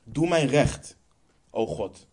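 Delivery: measured psalm reading with weighty pauses; solemn scripture reading. Acted. Preacher reads a psalm to the congregation, solemn and measured. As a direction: read it out phrase by phrase, stressing key words.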